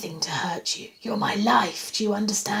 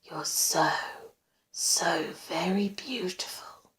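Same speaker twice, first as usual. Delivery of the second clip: slow, hushed adoration; obsessive whisper; 5 dB quieter, slower than usual. A narrator's reading. Stalker watching her sleep, adoring whisper. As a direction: whisper it slowly, lingering on her.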